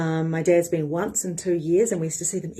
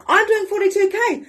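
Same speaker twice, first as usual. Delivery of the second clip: claiming it; 12 semitones higher, 5 dB louder than usual. Shown as a demonstration. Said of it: "claim it and say".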